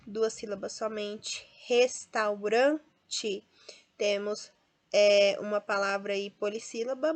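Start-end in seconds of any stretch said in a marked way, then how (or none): 1.7-3.5 "Restaurante" very slow, stressed on RAN; penultimate stress. Shown as a demonstration. Teacher tests the strong syllable, slow "Restaurante" stressed on RAN. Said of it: "mas a penúltima é mais forte".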